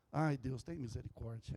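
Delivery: low, soft sigh of a prayer; hushed plea. Real, not acted. Preacher troubled by his dream pleads to God, hushed.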